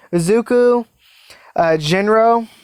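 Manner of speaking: careful Izuku, then Jinro; name said right again. Real, not acted. Repeating the name right, Izuku. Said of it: "I say Izuki for some odd reason".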